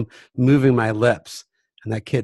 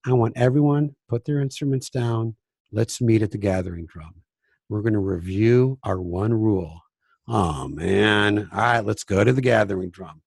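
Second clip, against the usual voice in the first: chilled quiet voice; 4 semitones lower than usual. Shown as a demonstration. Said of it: "stay in this very chilled, quiet voice".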